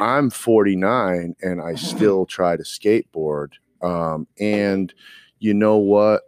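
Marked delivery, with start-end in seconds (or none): 0.0-3.5 impression of Rick. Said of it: "now I gotta do an impression of you now".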